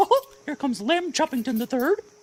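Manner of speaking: very high, loud, bright squeaky cartoon voice. Asked what voice, choosing Mickey Mouse for the line: Mickey Mouse voice. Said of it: "Mickey Mouse".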